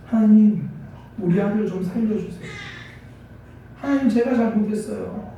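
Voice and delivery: acted remorseful plea, swelling then easing; tearful pleading prayer. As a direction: plead to God like a mother near wailing. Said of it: "통곡하기 시작하는 겁니다".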